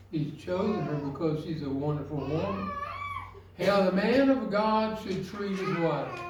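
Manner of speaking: tearful, fighting to keep speaking; choked up. Real, not acted. To the husbands in the congregation, choked up and tearful. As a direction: voice catching with tears. Preacher moved while teaching husbands.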